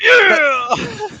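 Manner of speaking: high, loud cheering yeah; excited whoop. Real, not acted. Friend cheering the moonbeam at the table, excited whoop.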